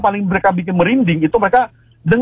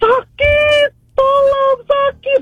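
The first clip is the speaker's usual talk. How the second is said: high-pitched cry for help; mimicked screaming plea, pitched way up; retold scream; much slower than usual. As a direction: imitate a shrill far-off scream, much higher. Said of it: "Terus teriak".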